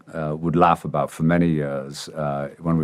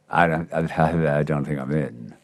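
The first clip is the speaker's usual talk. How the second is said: slow, much softer, low murmur of doubt; doubtful inner thought; 5 semitones lower, 6 dB quieter than usual. Retold or imitated. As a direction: think it quietly to yourself, losing hope. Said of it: "I started to think".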